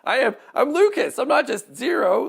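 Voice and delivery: high, loud comic indignation; mock annoyed protest. Voice actor protesting being known for one role, mock annoyed. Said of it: "kind of is annoying sometimes".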